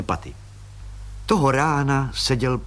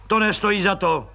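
dismissive growl; 8 semitones higher than usual. Acted. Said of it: "zavrčel odmítavě plukovník".

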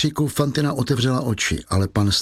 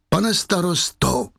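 slow, higher, desperate cry; drawn-out anguished cry for help; 6 semitones higher, slower than usual. A narrator's reading. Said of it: "vykřikla Fantina". (zoufalý výkřik, pomalý a vysoký)

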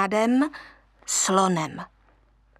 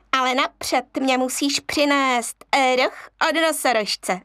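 grinning monkey; 3 semitones higher than usual. Acted. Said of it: "řekla opice a šklebila se".

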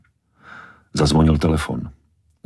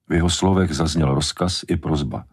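ordinary delivery

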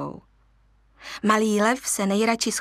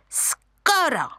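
higher monkey voices; screeching monkeys; 8 semitones higher, slower than usual. Acted. Monkeys teasing the lion cub, screeching. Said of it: "vřeštěly opice".

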